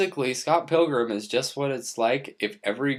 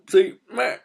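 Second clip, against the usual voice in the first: silly high showoff; 14 semitones higher, 6 dB louder than usual. Real, not acted. Showing off his haircut.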